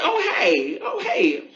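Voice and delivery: airy surprised greeting; mock shock. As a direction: act mildly startled to bump into someone. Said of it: "you almost are shocked".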